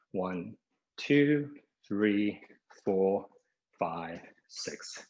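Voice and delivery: breathless counting during a talk test; out of breath. Real, not acted. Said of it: "I'm pretty out of breath today".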